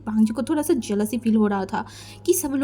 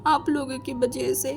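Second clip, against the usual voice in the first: much softer, defeated agreement; quiet surrender; 3 semitones higher, 6 dB quieter than usual. Acted. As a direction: give in with no fight left. Wing gives in to mother. (हारकर धीमी आवाज़ में हामी)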